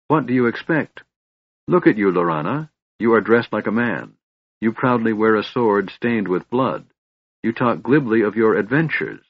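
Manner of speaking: scornful brother. Acted. Portheos shames his sister at council, scornful brother. Voices angry brother berating Laurana.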